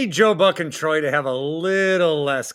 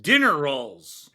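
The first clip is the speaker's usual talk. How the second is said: lightly hammed-up list announcer. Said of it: "Don't do it in that voice".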